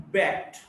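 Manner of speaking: backed ending in a T sound. Shown as a demonstration. Teacher showing a past ending, backed with final T. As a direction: say backed as one syllable closed by T. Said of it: "D or E D is pronounced as T".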